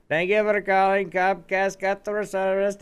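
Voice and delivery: high, loud chirpy agent greeting; mock call-centre greeting. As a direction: play the overly cheerful phone rep answering.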